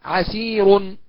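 slow chanted recital of the verse lines; poem recitation. Acted. Teacher reciting the poem's verses before explaining.

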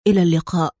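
low, composed goodbye; calm farewell. A narrator's reading. Adham heads for the basement door, calm farewell. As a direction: bid farewell calmly, pitched low. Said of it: "وقال وهو يتحرك نحو باب البدروم في هدوء".

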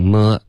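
么 with the final "ee" glide missing; wrong vowel demo. Shown as a demonstration. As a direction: show the mistake: bare 么, no glide. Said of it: "也别发成么".

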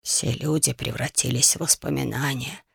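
soft low whisper. A narrator's reading. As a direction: breathe the words, barely voiced. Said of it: "прошептал другой мудрец".

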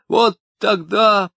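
slow, breaking voice; tears take over; mild tearful break; crying. A narrator's reading. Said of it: "Он вдруг заплакал".

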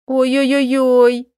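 slow drawn-out ow-ow-ow; slow pained oy-oy-oy; pained whimpering. Acted. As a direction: moan it out over a twisted foot. Twisted ankle on the stairs.

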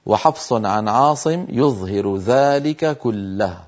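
slow, careful reading aloud; slow reading from the board. Shown as a demonstration. Teacher reading the board to students. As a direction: read the line off the board slowly. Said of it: "نرى في السطر الأخير".

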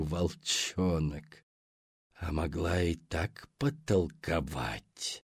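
low, soft, slow monster voice; gurgling sea hag. Acted.

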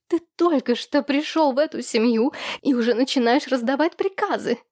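indignant, pitch rising steeply; upset accusation. A narrator's reading. Ekaterina, tearful, accuses Vladislav of giving orders, upset. Tearful sister in escalating quarrel.

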